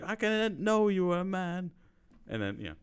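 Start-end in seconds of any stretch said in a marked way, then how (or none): 0.0-1.7 high, loud, slow imitation of a shocked woman; hammed-up woman's astonishment; mock shock. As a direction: draw out her mock disbelief. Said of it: "and she's like".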